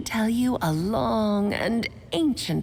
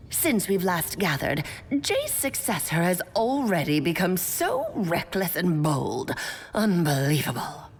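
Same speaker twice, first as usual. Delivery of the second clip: put-on old hag voice; 4 semitones lower than usual. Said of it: "Why are you talking just like the old hag?".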